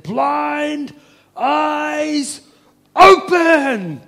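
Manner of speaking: high, loud scream of command. Acted. Preacher to the blind crowd, screaming at full force. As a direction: cry it out with all his might. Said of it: "he just screamed out".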